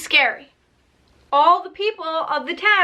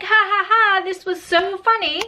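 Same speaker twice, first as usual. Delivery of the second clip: higher, amused ha ha ha; mock laughing; 5 semitones higher than usual. Friends laughing off the scary story, higher and amused. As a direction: laugh it off lightly.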